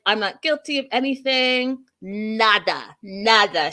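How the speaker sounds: mildly aggressive imitation of a denial. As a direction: mimic her defiance, leaning on each word. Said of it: "all, like, aggressive".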